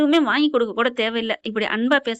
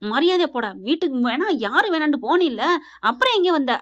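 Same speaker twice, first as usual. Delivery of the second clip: slightly raised, indignant challenge; retold angry challenge; 3 semitones higher than usual. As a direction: act out a family quarrel, mildly heated. Acted quarrel over the house. (கோபமாக சண்டை போடுவது போல)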